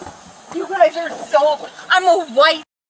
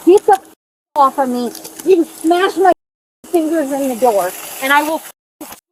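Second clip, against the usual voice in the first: angry yelling; 5 dB louder than usual. Real, not acted. Suspect yelling during arrest.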